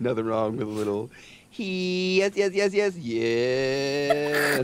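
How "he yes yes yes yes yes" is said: mock moaning yes. Acting out a porn moan.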